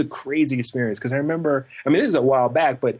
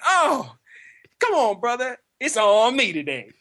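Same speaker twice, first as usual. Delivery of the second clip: friendly driver; 11 semitones higher than usual. Retold or imitated. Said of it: "He's like".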